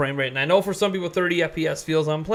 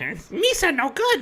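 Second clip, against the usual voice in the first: silly alien voice, pitched high; 10 semitones higher than usual. Ranting about Jar Jar Binks and Episode One, slipping into a Jar Jar Binks voice. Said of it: "I haven't used that voice since I was a kid".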